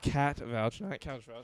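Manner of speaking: "Cat" set clearly apart from "couch"; contrastive stress on "Cat". Real, not acted. Streamer corrects friend's mishearing, stressing "Cat" against "couch". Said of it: "There's a difference".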